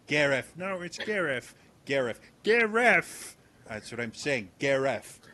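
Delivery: Gareth said as "Gareff"; mispronounced Gareth. Acted. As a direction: say Gareth with an f sound. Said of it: "it's the accent".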